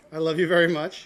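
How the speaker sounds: mean every word of it; with conviction. Shown as a demonstration. Chef showing the boy how to say it, with conviction. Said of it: "say that with a little more, uh, conviction".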